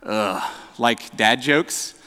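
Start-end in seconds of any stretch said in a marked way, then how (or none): 0.0-0.4 mock groan. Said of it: "when we think of groaning".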